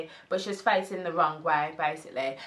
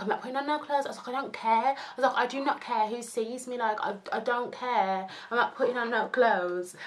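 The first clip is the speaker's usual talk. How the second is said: defiant refusal; 5 semitones higher than usual. Retold or imitated. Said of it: "I'm like".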